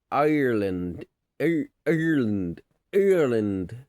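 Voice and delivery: loud put-on Irish accent; playful Irish-accent demo. Shown as a demonstration. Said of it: "I can do accents too".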